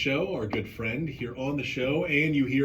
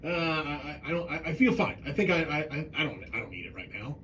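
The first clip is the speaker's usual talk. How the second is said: imitated hesitant excuse; 3 semitones higher than usual. Host imitating reluctant people declining a heart scan, hesitant. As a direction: play someone fumbling for an excuse. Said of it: "they come up with an excuse".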